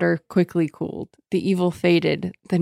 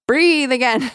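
spirit voice; 7 semitones higher, 3 dB louder than usual. Retold or imitated. Spirit voiced while retelling plot.

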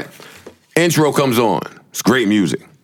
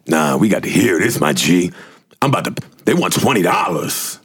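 friend insisting; 6 semitones lower than usual. Retold or imitated. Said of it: "friend quoted in story".

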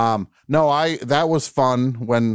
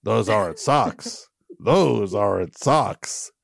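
rehearsing the line; slower than usual. Retold or imitated. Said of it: "he's like".

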